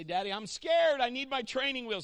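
put-on scared child. Daughter begs for her training wheels, a touch frightened. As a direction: whine like a scared little girl. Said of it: "She would say".

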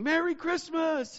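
high, drawn-out cheerful call; calling out greeting. Retold or imitated. Neighbors waving from their houses, calling out cheerfully. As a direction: call it across the street, slow.

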